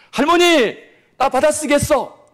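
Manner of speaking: put-on high, loud and slowed little-kid brag; a small child running to grandma with news; excited child voice. 아이가 할머니에게 자랑함. (할머니에게 신나서 자랑하는 아이 목소리)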